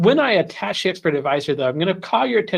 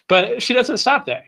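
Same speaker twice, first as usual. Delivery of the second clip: much higher, big salesy build to stop; hammed-up infomercial; 9 semitones higher, 3 dB louder than usual. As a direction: go full TV pitchman. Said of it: "I kinda sound like an infomercial there".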